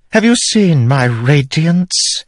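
high, slow triumphant reveal; queen proudly revealing the spren bond; gloating queen. Acted. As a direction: relish the secret. Queen boasts.

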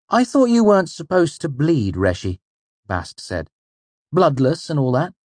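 high, loud youthful-sidekick voice; Bast, puzzled. A narrator's reading. Voices Bast questioning the innkeeper.

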